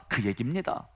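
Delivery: usual speaking voice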